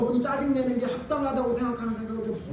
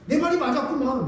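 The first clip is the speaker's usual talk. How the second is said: higher-pitched, vindicated grumble; indignant Jonah; 6 semitones higher than usual. Acted. Preacher as the prophet telling God he was right, indignant. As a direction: insist on having been right all along. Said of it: "이렇게 얘기하는 거예요".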